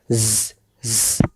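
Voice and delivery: জ, জ cut short and soft as a final stop; ending stop on jo. Shown as a demonstration. Teacher demonstrating the ending sound, softly. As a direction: clip জ, জ off quietly with no vowel after. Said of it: "এমন করে উচ্চারণটাকেই শেষ বলে।".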